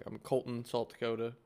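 North Dakota vowels, "South" like "Salt"; North Dakota accent. Real, not acted. Telling co-hosts where he works, in North Dakota accent. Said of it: "You adopted the North Dakota accent".

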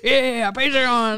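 laughing through the words; giggling, slowed, drawn out. Real, not acted. Both laughing at Patreon plug.

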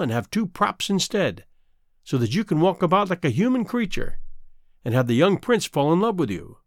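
sinister, taunting sea witch. Acted. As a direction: menace her, the wicked witch. Sea witch in fairy tale.

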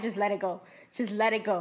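low, soft urging to drop it; hushed and low, calming someone; retold calming. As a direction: imitate an aunt quietly talking someone down. Aunt calming her, retold.

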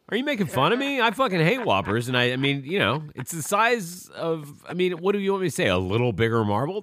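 high-pitched, indignant rant; worked up and defensive; exasperated outburst. Real, not acted. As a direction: protest in exasperation, pitch jumping up. Mock-indignant outburst at co-host.

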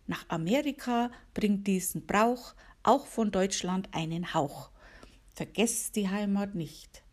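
gentle rhyming recital for listeners; poem reading. Acted. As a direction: read it like a little holiday poem. Reads her own poem aloud.

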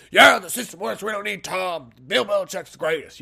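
loud, hammed-up Boston fan; Boston accent. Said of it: "why I was talking like that".

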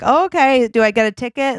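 high, uncertain question; mildly flustered guest. Acted. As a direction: ask it high, unsure of protocol. Acting out flustered guest with valet.

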